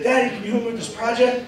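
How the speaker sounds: mock child's hurried little request; pleading kid. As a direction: ask Daddy for help in a mild kid voice. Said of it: "when my kid asks me".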